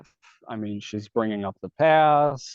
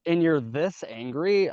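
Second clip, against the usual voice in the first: slow, higher disbelieving question; retold incredulity; 5 semitones higher than usual. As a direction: stretch out the disbelief, as if quoting yourself. Retelling his incredulous reply to her.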